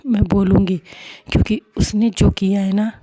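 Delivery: loud, stubborn refusal to back down; defiant anger. Acted. Payal to Samiksha, refusing to forgive Mishka, loud defiant anger. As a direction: dig in and spit it out. Payal vows she won't forget.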